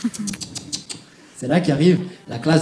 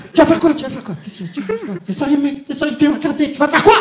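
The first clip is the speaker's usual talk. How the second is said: higher, taunting thug challenge; mock thug provocation; 8 semitones higher, faster than usual. The guy on the train taunting him, high mock threats. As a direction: needle him like a street tough.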